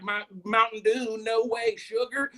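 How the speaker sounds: lightly put-on sugary whine; a hint of a sugar-starved fan; mock diabetic voice, mildly shifted. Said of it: "That sound like a sugary voice".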